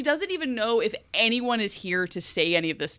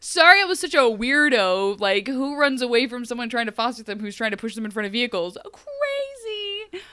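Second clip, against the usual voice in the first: higher, loud, bubbly bestie voice; hammed-up casual Emma; 4 semitones higher, 8 dB louder than usual. Emma cheerily greeting the woman who almost killed her, loud and bubbly. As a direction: gush like meeting an old friend.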